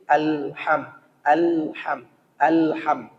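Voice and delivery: soft "alham", the l neither pressed nor flowing; simple alham. Shown as a demonstration. Teacher models the moderate l in alham. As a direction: say "alham" softly and evenly. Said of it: "Sederhana dia".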